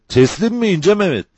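high, disbelieving call; shouted question. A narrator's reading. Sergeant doubting the outlaw's surrender, shouting high. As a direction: call the question out, pitch soaring. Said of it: "diye bağırdı".

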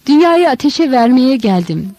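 yüksek perdeden haykırış; dünyayı yakmaya gelmiş gibi haykır; bağırarak. A narrator's reading. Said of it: "diye bağırıyordu". (İsa kalabalığa ateşli haykırıyor)

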